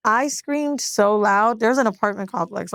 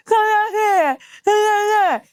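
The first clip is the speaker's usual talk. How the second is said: high, garbled mouth-stuck wail; can't talk; 12 semitones higher, slower than usual. Retold or imitated. Phoning boyfriend for help with stuck braces, high garbled pleading. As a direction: plead in mangled syllables, pitched way up. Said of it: "I can't say it's my braces".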